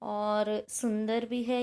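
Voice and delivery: normal talking voice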